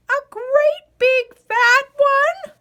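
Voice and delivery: slow, high wheezy creature rasp; sly varmint. Acted. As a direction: tease him like a sneaky critter.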